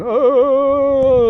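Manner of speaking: a loud, high mock-horrified "Oh!"; disgusted exclamation. Real, not acted. Ranting vlogger recoils at a politician's name, loud and high.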